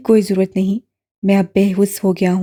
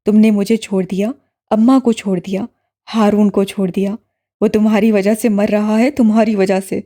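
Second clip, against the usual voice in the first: low, louder furious brother; yelling in anger; 4 semitones lower, 3 dB louder than usual. A narrator's reading. Brother raging at his sister, low loud yelling. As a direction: hurl every accusation at her. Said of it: "بلند سے بلند آواز میں گرا رہا تھا".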